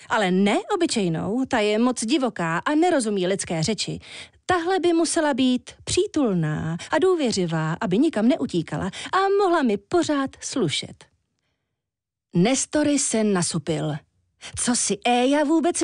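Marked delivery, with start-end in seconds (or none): 0.1-11.0 put-on higher, pert voice of a vain young woman ordering a pet; lightly voiced demanding Éja, raised pitch; spoiled woman. Éja calls up to the Walrus for a stylish fox, demanding and pert.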